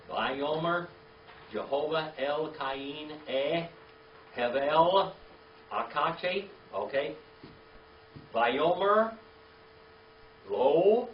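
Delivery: each Hebrew word drawn out slowly and loud; slow careful Hebrew reading. Shown as a demonstration. Teacher reading the Hebrew verse slowly to students. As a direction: read it out slow for the class to follow. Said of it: "Let's say it real slow now".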